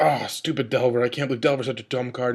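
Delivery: put-on whiny, complaining voice. Retelling how an opponent reacted to losing, imitating Nick whining angrily. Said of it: "complaining and whining".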